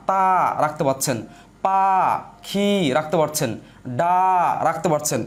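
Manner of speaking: each syllable set apart, then রাখতে পাচ্ছেন said low; breaking আতা গাছে তোতা পাখি into syllables; syllable by syllable demo. Shown as a demonstration. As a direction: count the syllables out one at a time. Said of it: "তাহলে দেখেন".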